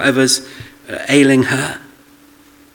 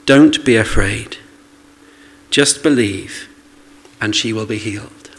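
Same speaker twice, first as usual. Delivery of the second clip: calm reassurance; 4 semitones lower than usual. Retold or imitated. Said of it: "he said to Jairus".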